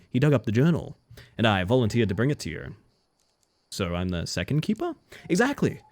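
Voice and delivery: lightly voiced friendly fisherman; a hint of a boastful sea captain.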